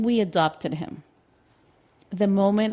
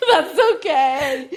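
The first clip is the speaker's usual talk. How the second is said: slow, higher laughing aside; giggled that's okay; 8 semitones higher, 7 dB louder, slower than usual. Real, not acted. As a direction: laugh it off in disbelief. Laughs at ex-husband's offer.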